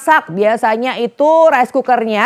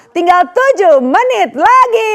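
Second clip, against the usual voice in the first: urgent; 7 semitones higher, slower than usual. Real, not acted. Countdown urgency.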